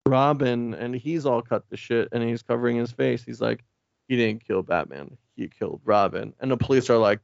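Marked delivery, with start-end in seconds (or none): 4.1-6.3 lower-pitched Batman impression. Podcaster voicing Batman correcting the police, low Batman voice. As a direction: drop the pitch for a Batman reveal. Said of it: "a Batman voice says".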